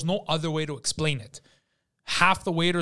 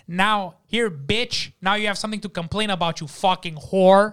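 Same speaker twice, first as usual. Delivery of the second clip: higher-pitched spiteful outburst, building louder; snapping; 3 semitones higher, 4 dB louder than usual. Retold or imitated. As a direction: act out a waiter who has snapped. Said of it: "He snaps".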